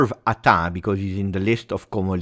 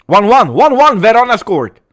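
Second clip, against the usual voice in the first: high, loud burst at the goal news; excited shout; 13 semitones higher, 12 dB louder than usual. Real, not acted. Streamer reacts to goal elsewhere.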